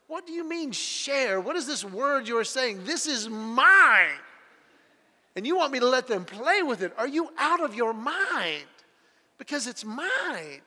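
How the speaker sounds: mock disbelief, drawing out the claim; indignant three-year-old. Three-year-old told to share, mock indignant. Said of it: "they're looking at you like".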